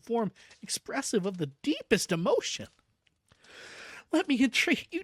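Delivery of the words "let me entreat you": high, loud desperate begging; frantic pleading. Acted. Patient begging his doctor, frantic and loud. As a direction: beg for your life, near tears. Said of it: "poured forth a torrent of entreaty".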